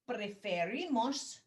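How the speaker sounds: preferimos slow, every syllable spaced out; slow model for repeating. Shown as a demonstration. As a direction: say preferimos slowly for the class to repeat. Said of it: "repiten por favor".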